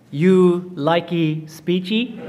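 slow, deadpan pidgin parody; the president mimics the man's pidgin, slow and dry; mock pidgin payback. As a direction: throw his own pidgin back at him, slowly. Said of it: "Chinese guy turns to him and says".

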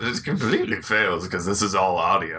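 self-admiring, pleased with himself; vain voice. Real, not acted. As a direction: say it like you're admiring yourself. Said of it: "You should not talk in the vain voice".

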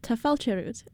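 tá fáilte rud tried out, falling on fáilte; a learner testing the Irish reply; learner's Irish attempt. Shown as a demonstration. Host trying the Irish reply for the teacher. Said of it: "Am I saying that correctly?".

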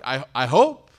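unsure hope. Retold or imitated. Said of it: "you're kinda like".

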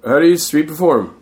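mock-earnest; eager kid. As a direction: ask like a naive teen. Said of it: "I'm like".

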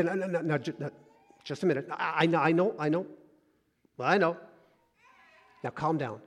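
put-on soft, hushed calming of a fussy toddler; soothing a child. Parent crouching to calm a crying child, soft and soothing.

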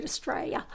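Australia with the L dropped, like "Straya"; broad Aussie "Australia" with no L sound. Shown as a demonstration. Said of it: "don't pronounce the L anymore".

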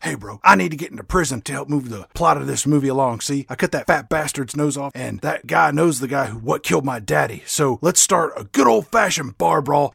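fast bro voice ending in a huge whoop. Acted. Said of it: "Bronan is like".

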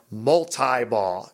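"multi-ball" using the long I; "multi-ball" with "tie" in the middle. Shown as a demonstration. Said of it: "using the I".

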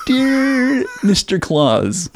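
high, very slow formal reading; a kid's angry letter to Santa, slowly pronounced; mock formal letter. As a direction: read it like a stiff letter.

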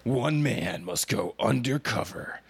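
lightly voiced trailer announcer; gravely serious trailer narration; fighting game announcer. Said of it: "the movie trailer announcer voice".

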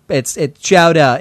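put-on slow New England accent, dropped R. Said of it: "New Englanders don't s-, pronounce ours".

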